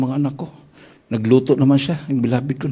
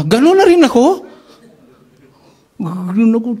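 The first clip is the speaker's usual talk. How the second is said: laughing; 8 semitones higher, 5 dB louder than usual. Real, not acted. Recalling dying, laughs.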